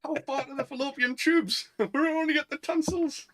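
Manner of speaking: squeaky joke voice. Acted. Joking about the film scene.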